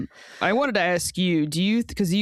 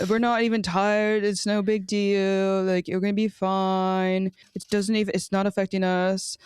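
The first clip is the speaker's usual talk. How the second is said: put-on Jess Fishlock's accent; 2 semitones higher than usual. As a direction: imitate the player's accent, brushing it all off. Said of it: "This is my accent of Jess Fishlock".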